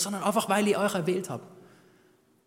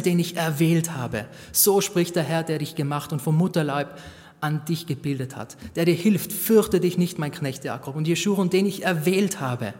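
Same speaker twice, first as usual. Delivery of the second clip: louder, solemn Bible reading; scripture reading; 4 dB louder than usual. Acted. Preacher reads God's promise to Jakob, louder and solemn. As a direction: proclaim the promise with weight.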